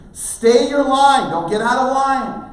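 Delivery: loud, high, drawn-out command; calling out. Retold or imitated. Parent shouting instructions to son on the trail, urgent. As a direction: holler directions to someone far up a slope.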